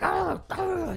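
high, strained fake wailing; mock anguished cries. Rolling on the ground after friends bail: mock anguished cries. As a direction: ham it up like a wounded psycho. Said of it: "just looking like a psycho".

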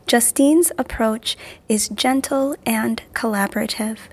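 measured, clearly articulated promo read. Real, not acted. Promoting a coaching and yoga service to listeners, ad read. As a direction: present the coaching service in polished announcer phrases.

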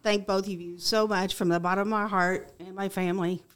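choked-up, heartfelt thanks; emotional, pausing to collect yourself; getting emotional. Real, not acted. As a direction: thank them while holding back real emotion. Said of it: "I get a little emotional here".

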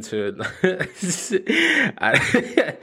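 high burst of laughter; laughing. Real, not acted. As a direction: crack up mid-sentence. Laughs at own story.

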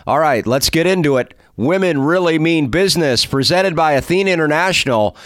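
polished host intro delivery; presenter's scripted welcome; podcast intro read. Acted. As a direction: read it as a measured show opener. Reads the scripted show introduction.

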